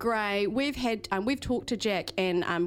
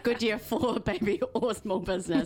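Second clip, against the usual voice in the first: laughing auntie quote. Retold or imitated. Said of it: "my auntie's voice, like, literally coming out my mouth".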